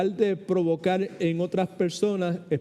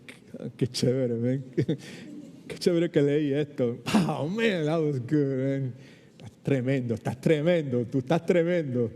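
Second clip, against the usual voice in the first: delighted self-talk; 2 semitones lower than usual. Retold or imitated. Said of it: "Eso es me saying".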